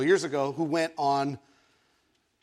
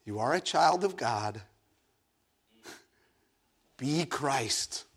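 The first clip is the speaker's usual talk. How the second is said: low, measured reminder; slow down and say it low, with weight; friend's voice; 4 semitones lower, 5 dB quieter than usual. Retold or imitated. Friend's voice remembered in the waiting room, solemn. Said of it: "I'm really hearing my friend's voice".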